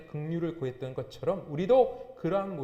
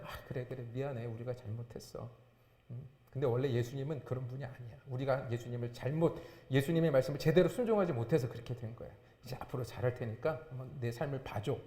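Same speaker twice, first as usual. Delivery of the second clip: softer, lower conciliatory voice; acted humble apology; 3 semitones lower, 3 dB quieter than usual. Believer answering someone who criticises the church, mild conciliatory apology. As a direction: gently own up and reassure, as role-play.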